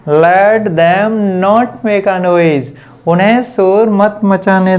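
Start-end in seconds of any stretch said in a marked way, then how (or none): 0.1-2.7 each word drawn out very slowly; slow dictation. Shown as a demonstration. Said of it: "okay".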